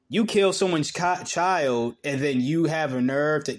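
real outrage spilling over; outraged. Real, not acted. Commenting on the toddler's death, outraged.

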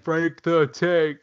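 high, slow, drawn-out call; mock movie quote. Podcast host quoting Old School, high drawn-out mock call. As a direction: stretch it out high like a comic movie line.

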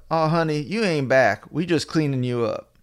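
lightly imitated Southern US drawl. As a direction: play the nurse with a relaxed Southern twang. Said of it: "she's got this southern drawl".

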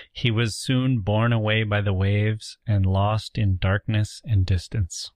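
slow literary read-aloud; story reading. Acted. Podcaster quizzing co-host with a novel's ending, slow reading. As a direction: read it out slowly as a closing line.

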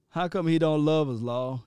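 imitating a hurt actor's plea; half-laughing mock-plaintive impression; lightly acted wounded question; Will Smith. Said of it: "In Will's voice".

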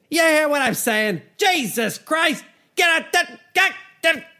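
high, far-off mock Bill Burr rant; squeaky, hammed-up Bill Burr shouting.

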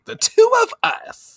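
very high chirped echo; squeaky copycat. Retold or imitated. Gyaru girls copying the heroes, squeaky echo. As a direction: squeak it back like eager fans. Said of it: "Naruru and Raruna also say".

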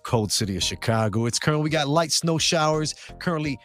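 upbeat radio show host read. Acted. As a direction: pitch it like a live radio host.

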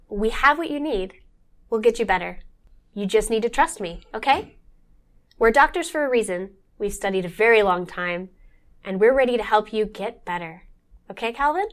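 eerie, unnatural doctor voice; alien in human skin. Acted. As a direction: sound like an alien wearing skin. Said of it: "talking like an alien in human skin".

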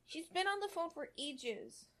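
put-on grumbling little girl. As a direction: sulk about mum on the phone. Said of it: "Charlotte grumbled".

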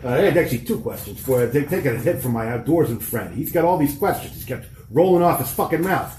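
put-on light Boston accent, tough investigator; lightly voiced Boston tough guy. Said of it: "keep doing the Boston accent".

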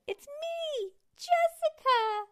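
very high, drawn-out squeak; high squeaky movie voice. Retold or imitated. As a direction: imitate the movie line. Movie quote imitation.

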